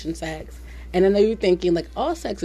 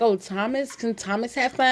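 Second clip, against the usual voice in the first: imitating a Spanish accent; 4 semitones higher than usual. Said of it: "thick-ass Spanish accent".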